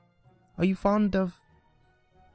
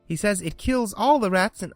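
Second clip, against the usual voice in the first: put-on higher, eager rush of girlish praise; eager chatter; 6 semitones higher than usual. A narrator's reading. Alice eagerly describes a terrier to the mouse. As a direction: gush about the neighbor's dog. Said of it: "so Alice went on eagerly".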